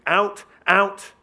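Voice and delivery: high, very loud repeated command; shouting. Acted. Deputy herds visitors to the door, shouting. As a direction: bellow it to clear the room.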